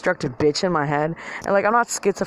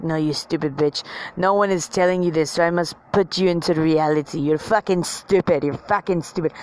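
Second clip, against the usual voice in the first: light mock French accent; a hint of a French-accented inner bully; French little man. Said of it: "as a French little man".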